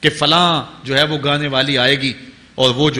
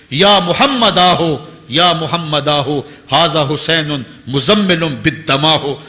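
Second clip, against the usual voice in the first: slow, drawn-out Arabic invocation; preacher's measured rendering of a lament; recited lament; slower than usual. Retold or imitated. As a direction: recite a retold cry for help, stretching the words. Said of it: "جو کربلا میں کھڑا ہو کے کہہ رہی ہیں".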